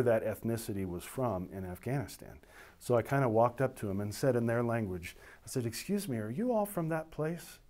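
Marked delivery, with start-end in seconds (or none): 5.7-7.6 higher-pitched mock-surprised question; feigned surprise. Officer pretending kinship with Afghan office staff, mock surprise. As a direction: ask as if amazed to find countrymen.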